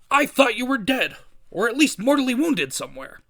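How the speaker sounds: high-pitched, loud dismay; shocked outburst. Acted. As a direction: blurt it out, aghast. Editor shocked at hero's return.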